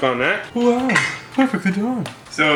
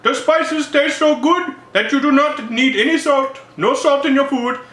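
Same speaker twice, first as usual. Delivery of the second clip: higher, slow mock Indian accent; 10 semitones higher than usual. Spice stand vendor selling spice buckets, mock Indian accent. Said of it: "maybe I will".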